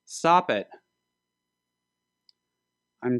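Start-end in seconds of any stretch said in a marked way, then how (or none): 0.0-0.7 urgent shout. Acted. Urgent call to stop someone.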